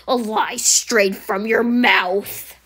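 slow, deliberate accusation; accusing. Acted. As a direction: spell out the lie slowly. Customer accuses employee of lying.

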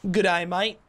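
high, hammed-up Aussie greeting; mock Australian accent. Gamer greeting another player, mock Australian accent. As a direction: put on a playful Australian accent. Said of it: "that was a great accent".

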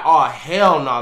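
loud, alarmed "Oh, hell no"; loud alarmed exclamation. Retold or imitated. Startled by intruder at door.

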